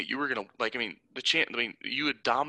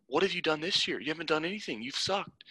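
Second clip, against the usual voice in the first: higher-pitched indignant telling-off, not shouted; retold scolding; 4 semitones higher than usual. Player confronting the disloyal teammate, indignant scolding.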